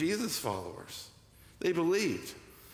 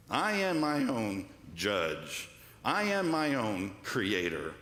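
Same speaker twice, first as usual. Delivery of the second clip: lower, slow, smug mock proclamation; mock self-assured American; 5 semitones lower, slower than usual. Preacher mocking Americans, slow smug boast. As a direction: play the proud American owning his own truth. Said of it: "Americans are like".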